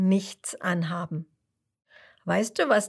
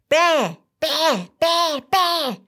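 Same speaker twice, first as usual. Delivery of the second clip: louder, higher angry bäh bäh; grumpy shouting; 7 semitones higher, 6 dB louder, much slower than usual. Acted. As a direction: shout back like a sulking child in a tantrum. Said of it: "Miesmi ruft miesmutig zurück".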